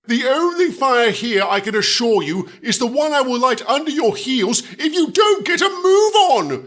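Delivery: shouting the engine into moving; angry shouted threat. Acted. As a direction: threaten him at full volume.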